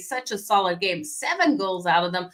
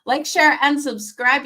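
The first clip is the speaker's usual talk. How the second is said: higher, louder call to like and share; energetic retake; 5 semitones higher, 4 dB louder than usual. Real, not acted. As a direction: punch it out with fresh energy. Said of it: "I'm losing my voice".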